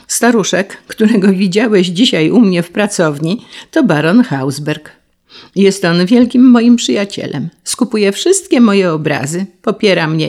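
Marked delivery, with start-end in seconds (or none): none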